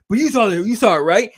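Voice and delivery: quoting Strickland. Retold or imitated. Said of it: "He goes, he goes".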